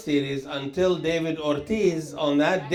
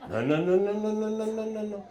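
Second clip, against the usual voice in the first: fading no no no; 2 semitones higher, 4 dB quieter, faster than usual. Real, not acted. Rejecting prenup idea, fading.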